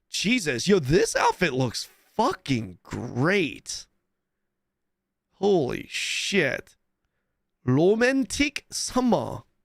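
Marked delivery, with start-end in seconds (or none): 7.7-9.4 very strong, laid-on, sing-song Korean accent. A streamer reacting to an outfit says a phrase in a very korean accent. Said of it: "in a very Korean accent".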